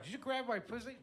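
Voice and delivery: very high mock female voice; hammed-up high-pitched indignant question; accusing woman. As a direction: imitate a startled woman's accusation. Acted woman turning round to accuse.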